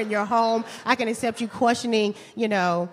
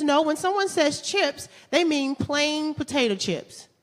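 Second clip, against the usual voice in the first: put-on slow, pedantic boyfriend; 7 semitones higher, slower than usual. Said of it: "and he says".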